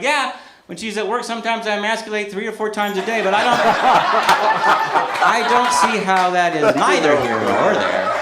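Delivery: giggling reply; words breaking into laughter; laughing through it. Retold or imitated. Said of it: "I'm like".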